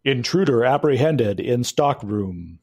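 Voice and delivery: lightly voiced mechanical robot; a hint of a security robot announcing. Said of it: "loud mechanical voice says".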